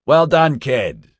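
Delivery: loud, high congratulatory shout; shouted praise. A narrator's reading. Marty cheers on Barry in the pool, shouting. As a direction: call out praise at full voice. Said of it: "Marty shouted".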